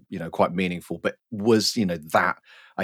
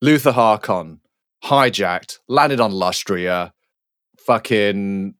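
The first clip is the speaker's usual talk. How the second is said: stroppy recap. Acted. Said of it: "the stroppiest WhatsApp recap".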